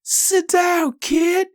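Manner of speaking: very high, nasal-free mock white guy yell; mock a whiny white guy telling a kid to sit; white dude's voice. Fan behind the boy shouting at him, very high mock white-guy voice. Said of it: "this fat white dude behind me, like".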